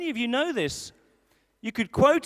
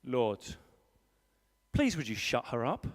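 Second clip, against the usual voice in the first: grumbling prayer; 13 semitones lower, 7 dB quieter than usual. Retold or imitated. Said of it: "I pray this prayer".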